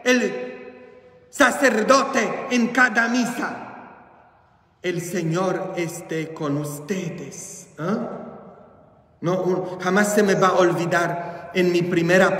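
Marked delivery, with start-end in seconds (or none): 4.8-7.7 soft, slow, rote "El Señor esté con ustedes"; mechanical parroting. Retold or imitated. Priest mimics churchgoers answering by rote, soft and slow. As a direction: drone it like a bored parrot. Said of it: "como papagayos".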